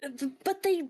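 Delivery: flustered, squeaky objection in character; whiny high voice arguing back; high-pitched protest. Acted. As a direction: protest loudly up high, then falter. Acted in-character protest to Luke.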